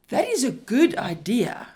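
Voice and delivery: loud, enthusiastic approval with the stress on is; strong, approving tone. Shown as a demonstration. Lecturer showing students the approving version, loud and enthusiastic. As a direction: say it like you truly love the idea. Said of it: "in a strong tone of voice".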